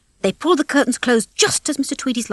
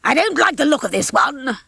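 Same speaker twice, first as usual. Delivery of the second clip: put-on disapproving old rooster, raised pitch; 5 semitones higher than usual. A narrator's reading. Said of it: "the old rooster told the others".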